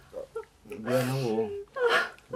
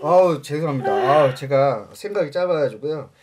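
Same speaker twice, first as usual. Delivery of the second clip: louder groaning sorry; pleading apology; 6 dB louder than usual. Acted. Husband groaning his apology to the shaman, pleading. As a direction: moan the apology out.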